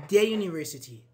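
"the" before university, stressed and held apart; "the" before a consonant sound. Shown as a demonstration. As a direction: say "the" clearly, then "university" starting with a y sound. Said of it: "I say you".

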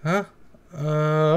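ordinary talk

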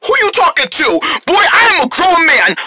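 high, outraged grown-up yell; indignant scolding. Acted. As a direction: put the boys in their place. Man scolds cheeky boys.

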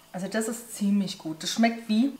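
talking while chewing; chewing between words; mouth partly full. Real, not acted. Seen 1: bite taken at -2.0; lips pressed, chewing until about 1.9s.

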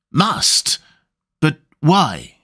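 jolted, asking why in disbelief; surprised question. Acted. Seward startled by her reply.

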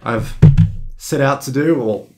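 groggy hungover voice; sluggish, worn-out delivery. Real, not acted. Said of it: "Sorry for being hungover".

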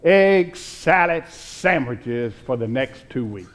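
put-on a little boy's smiling answer, a laugh in it; boy in Sunday school answering the teacher, smiling; said with a smile. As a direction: let a grin come through the punchline. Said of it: "with a smile".

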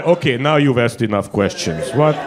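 mock secretive. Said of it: "it's like".

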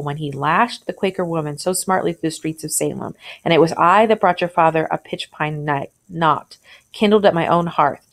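reading a classic tale to the class, lightly voicing the speakers; story reading aloud. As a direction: read it out like a teacher sharing a story.

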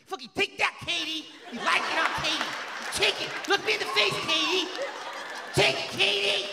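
high, loud hammed-up white dude shouting; white guy in bed. A mock white guy shouting at Katie in bed. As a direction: yell it like an overexcited frat boy. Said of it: "white people fuck, you ever seen that?".

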